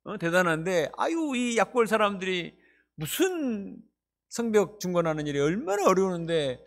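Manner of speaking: lightly voiced mocking enemy; mocking Sanballat. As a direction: play the scornful enemy, a touch of contempt. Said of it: "이렇게 말했습니다".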